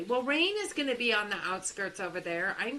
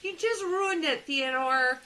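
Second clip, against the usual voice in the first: mock exasperated; 10 semitones higher, 5 dB louder than usual. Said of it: "I'm like".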